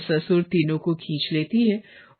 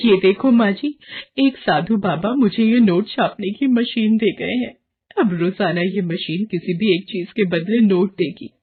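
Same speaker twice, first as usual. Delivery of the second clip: lightly raised, eager daughter-in-law voice; excited young wife; 2 semitones higher than usual. Acted. Daughter-in-law showing mother-in-law the machine, a touch excited. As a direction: show off the money machine, a bit thrilled.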